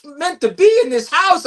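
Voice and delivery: lightly hammed-up stage line; a touch of stagey grandeur; theatrical audition delivery. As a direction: re-enact an overly theatrical audition read. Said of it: "I made it very theatrical".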